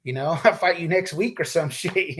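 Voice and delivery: chuckling through the words; laughing. Real, not acted. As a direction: laugh while saying it. Laughing while retelling the brush-off.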